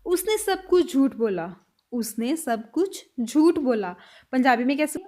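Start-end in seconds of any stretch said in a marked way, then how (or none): 1.9-3.9 slower, lower repeat. Shown as a demonstration. Teacher repeating the sentence slowly for students. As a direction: say it slowly once more. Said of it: "next sentence".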